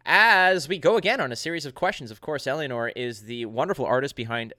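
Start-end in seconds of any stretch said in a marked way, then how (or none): 0.1-2.1 punchy, higher-pitched segment intro; show host announcer. Acted. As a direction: announce the guest segment to the crowd.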